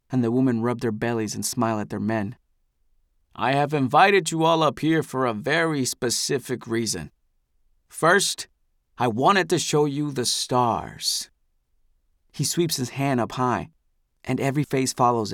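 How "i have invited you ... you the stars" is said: grand, higher orator's voice; a patriarch charming his people; benevolent elder. Acted. Eldest addresses the crowd.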